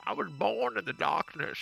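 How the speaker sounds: hammed-up masked villain quote; Bane. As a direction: imitate a villain talking through a mask. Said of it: "I'm trying to do the Bane voice".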